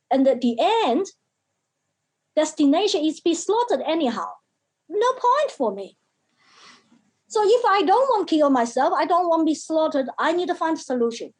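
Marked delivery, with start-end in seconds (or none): 4.9-11.3 agitated. Retold or imitated. Retelling child's desperate reasoning.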